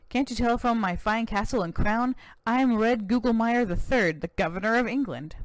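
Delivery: lightly voiced American cowboy governor, proud; a touch of boastful Texan governor.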